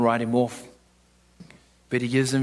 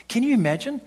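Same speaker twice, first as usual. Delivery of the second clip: pitched up high, pressing the crowd; emphatic question; 9 semitones higher than usual. Real, not acted. Preacher pressing the congregation with a high, urgent question. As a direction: lift the question high to the church.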